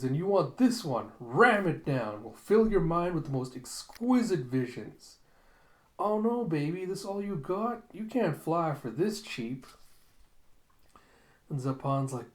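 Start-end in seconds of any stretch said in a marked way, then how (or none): 0.0-5.2 louder, higher theatrical saleswoman pitch; stereotypical madam. Acted. Madam pitches a drug to a buyer, theatrical and louder. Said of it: "And so the lady continues". 6.0-9.7 high, swooping mock-scandalized madam; haggling madam. Madam turns down a cheap offer, high and scoffing.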